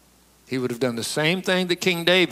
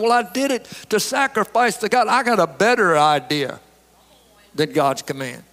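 making excuses; 3 semitones higher than usual. Acted. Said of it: "he's making excuses for what he done".

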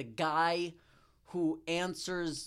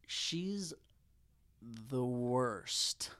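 slow deliberate delivery; 6 semitones lower, 6 dB quieter, much slower than usual. Retold or imitated. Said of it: "He'll be like".

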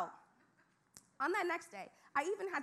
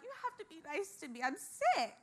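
fast, demanding brat act; mock spoiled-child demand; bratty demand; 5 semitones higher than usual. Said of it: "I demand attention".

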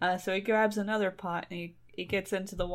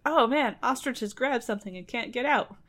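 alarmed beasts; 4 semitones higher than usual. Retold or imitated. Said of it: "they're like".

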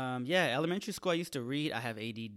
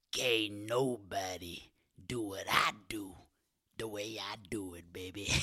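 seductive whisper; 2 semitones lower than usual. Shown as a demonstration. Comic whispers the seductive line again. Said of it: "seductive voice".

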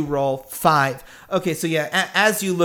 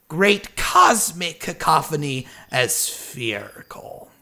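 genial stranger, intrigued. Acted. Stranger learning they say sphere, intrigued and lightly theatrical. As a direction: savour the discovery with a touch of showmanship. Game master voices the stranger.

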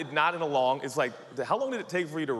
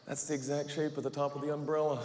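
deflated realization; 6 dB quieter than usual. Retold or imitated. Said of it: "and I'm like".

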